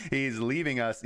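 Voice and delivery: put-on "He's leaving us" in a faint, barely-there Trump accent; a slight hint of Donald Trump on "leaving"; bad Trump impression. Mocking the economy Biden leaves Trump in a weak Trump accent. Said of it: "my Trump accent's super bad".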